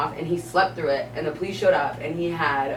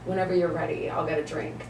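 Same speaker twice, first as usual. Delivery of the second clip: mild calm customer; 7 dB quieter than usual. Retold or imitated. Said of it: "that are just there that are like".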